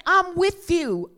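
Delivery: high and loud, God declaring; a high, loud divine promise; booming voice of God. Acted. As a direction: proclaim it like God himself. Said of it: "God is saying".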